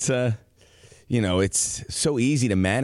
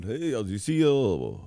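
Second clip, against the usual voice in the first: goofy mock Dutch accent. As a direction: play a guy in Amsterdam with a hammy Dutch accent. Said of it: "I'm trying to do gold member".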